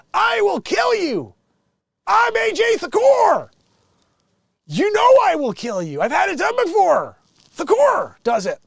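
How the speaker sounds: hammed-up, very high, loud yell; Thakor shouting threats. Yacht owner threatening dock worker, hammed-up shouting. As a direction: bellow it like an over-the-top villain, pitch soaring. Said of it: "Thakor was shown shouting at Holt".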